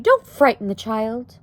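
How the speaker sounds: a touch of whimpered pleading; whimpering. A narrator's reading. Wife tells husband not to frighten child, whimpering. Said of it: "whimpered Homley".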